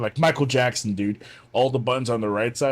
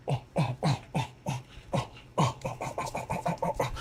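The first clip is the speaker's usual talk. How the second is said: airy breathless oh oh chant, fading softer; raving crowd chant; 4 semitones higher, 9 dB quieter than usual. Retold or imitated. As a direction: mimic a crowd of soldiers raving to the beat. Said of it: "They're, like, raving and shit".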